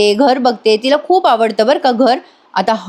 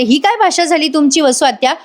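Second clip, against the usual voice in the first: higher-pitched, mildly indignant protest; annoyed retort; 4 semitones higher than usual. Retold or imitated. Nandini objecting to the aunt's language, annoyed retort. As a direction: imitate a woman standing up for a child. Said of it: "Nandini चिडते आणि म्हणते".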